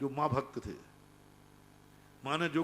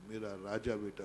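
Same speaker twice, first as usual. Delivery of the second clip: soft, lower, tearful endearment; a mother softly weeping over her son; crying mother; 6 semitones lower, 5 dB quieter than usual. Retold or imitated. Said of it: "बेटे को गले से चिपका के रो बैठी". (रोती माँ का धीमा दुलार)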